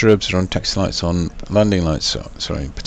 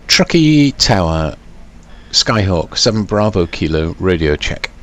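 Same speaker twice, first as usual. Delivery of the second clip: pilot over the radio. Acted. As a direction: call the tower like a pilot. Radio call to the tower.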